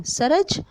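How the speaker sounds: सूरज said as "सरज" with no long oo; without the matra. Shown as a demonstration. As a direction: drop the ऊ and say सरज short. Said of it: "तो हम कैसे बोलेंगे इसको?". (ऊ की मात्रा के बिना "सरज")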